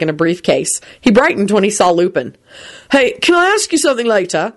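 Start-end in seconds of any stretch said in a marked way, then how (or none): 2.9-4.5 put-on higher, upbeat boyish question; very cheery. A narrator's reading. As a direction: ask it brightly and eagerly. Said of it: "asked him very cheerily".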